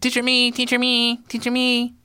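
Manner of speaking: put-on very high begging child; eager student. Another student pleading with the teacher, very high. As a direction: plead to be chosen. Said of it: "another student put up their hand".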